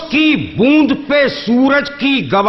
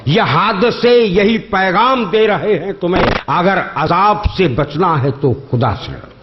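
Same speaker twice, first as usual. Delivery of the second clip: measured, lingering verse delivery; poetry recitation; slower than usual. Acted. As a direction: recite each line slowly for effect. Repeats the quatrain.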